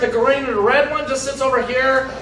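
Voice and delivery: put-on Texan Irish accent. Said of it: "my Texan Irish accent".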